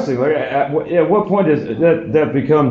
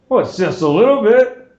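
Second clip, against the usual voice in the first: sheepish dad excuse; 7 semitones higher than usual. Retold or imitated. Dad admits to a little dog poop, mock sheepish. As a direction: shrug it off like it's nothing. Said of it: "dad excusing himself".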